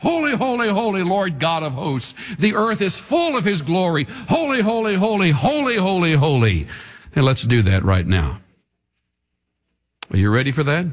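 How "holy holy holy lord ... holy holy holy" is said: answering choir of seraphs, chanted; angelic answer. Acted. Preacher voicing the answering seraphs, chanting. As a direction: chant back like the other choir. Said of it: "And they answered back".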